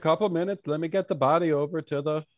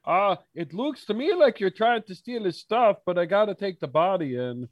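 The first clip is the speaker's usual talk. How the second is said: higher-pitched onlooker butting in; a hint of a suspicious townsman; lightly voiced body collector; 4 semitones higher than usual. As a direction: interrupt two men caught pilfering. Plays Yakur behind the pair.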